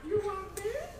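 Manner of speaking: mock Chinese accent. To the crowd, British lady's tea offer in a mock Chinese accent. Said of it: "British lady just happens to say".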